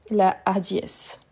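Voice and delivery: La hardiesse with a clear break after La and no elision; slow teacher demo of La hardiesse, no liaison; aspirated h demo. Shown as a demonstration. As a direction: hold La apart from hardiesse, slowly. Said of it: "c'est un H aspiré".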